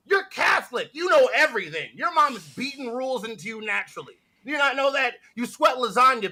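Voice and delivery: high, punchy insult rant; exasperated ranting. Acted. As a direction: scold with escalating disbelief. Comic rant at absent person.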